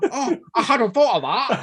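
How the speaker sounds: high, bright comic whine; a fussy comedy character's little gasp; Reece Shearsmith impression. Mocking his co-host's voice, high and comic. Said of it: "you sound like Reece Shearsmith when he goes".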